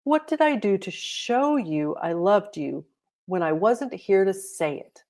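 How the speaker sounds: ordinary delivery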